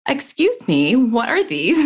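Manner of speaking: high, mock-scandalized excuse me; mock indignant surprise. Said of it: "And she's like".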